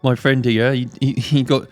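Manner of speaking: nervous hunter voice. Acted.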